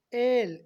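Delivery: एल loud with a long gliding vowel; correct L. Shown as a demonstration. Teacher modelling the right L, long loud एल. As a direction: stretch the vowel before ल in एल. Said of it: "एल नहीं एल".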